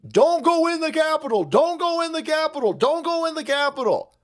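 high, insistent repeated plea; imitating a pleading warning. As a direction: beg the crowd not to go in. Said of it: "He's pleading".

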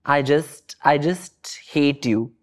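ordinary talk, nothing marked

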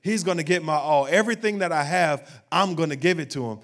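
impassioned, building preacher's declaration; fervent devotion. Acted. Woman resolving to pour out her perfume for Jesus, fervent.

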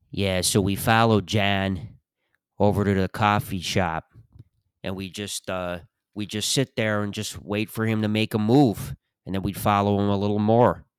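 lightly voiced retired Chicago cop; old Chicago detective accent. Old Chicago detective recounting a stakeout on TV, Chicago accent. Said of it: "every Chicago person just".

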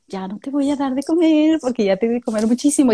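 firm talk to the cat. Retold or imitated. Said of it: "a veces le digo".

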